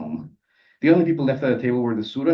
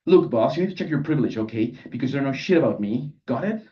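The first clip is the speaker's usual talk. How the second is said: telling-off; 3 semitones higher than usual. Acted. Canonizer scolds the narrator.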